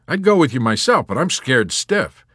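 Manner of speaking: high, loud, slowing at the end; urgent warning. Acted. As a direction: warn him with exaggerated urgency. Yossarian's urgent warning to chaplain.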